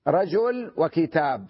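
رجل وكتاب said slowly as rajulun wa kitabun; slow example with nunation. Shown as a demonstration. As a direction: draw out رجل وكتاب to let the tanwin ring. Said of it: "مثل". (نطق بطيء بالتنوين)

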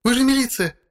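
high-pitched voice of a tearful woman; upset woman. A narrator's reading. Tearful wife reproaching the militia, high woman's voice. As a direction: demand help through tears.

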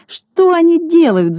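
high, slow howl of despair; howling wail. A narrator's reading. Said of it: "завопил Клопс".

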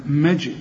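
مج with a bounce released after the j; echoing jim. Shown as a demonstration. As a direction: bounce the still j at the end of مج. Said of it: "كل جيم عليها سكون قلقلها".

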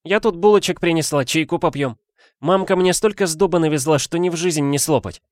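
lightly voiced kind girl; Tayka voice. A narrator's reading.

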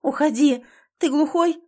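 shouted, high and loud; loud desperate shout. A narrator's reading. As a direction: yell at him to leave. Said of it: "лишь повышаю голос".

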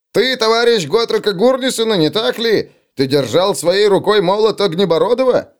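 high, eager awe; awed. Acted. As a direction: ask in wonder, star-struck. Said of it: "в его голосе слышалось благоговение". (благоговейный высокий голос)

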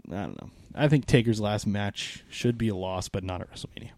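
tired, strained voice going hoarse; losing voice. Real, not acted. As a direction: talk through a voice that's giving out. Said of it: "I'm kinda losing my voice here".

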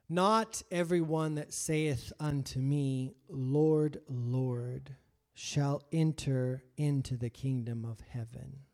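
slow, measured scripture reading. Acted. Preacher reading Matthew to the standing congregation. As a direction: read each word slowly, with weight.

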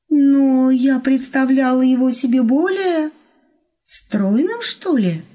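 lightly voiced hesitant young woman; cautious. A narrator's reading. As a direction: ask it tentatively, doubting. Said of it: "осторожно проговорила Елена".

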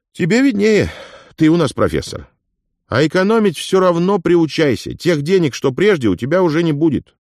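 a lively, knowing companion; Afonya, lively friend. Acted. Narrator voices Afonya teasing.

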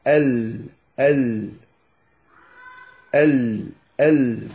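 ال repeated, each L held; separate, sustained ل sounds in ال; Lam articulation demo. Shown as a demonstration. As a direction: say ال in isolation, tongue just short of the gum ridge. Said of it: "بهذه الطريقة".

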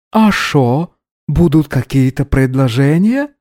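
mock Odessa Russian lilt; playful Odessa Russian intonation; Odessa Russian accent. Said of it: "с пародийно-одесскими интонациями".

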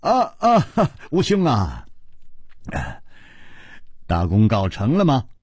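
mildly hammed-up jolly welcome; hearty laughing greeting. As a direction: chuckle into a relieved hello. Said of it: "大声地笑着说".

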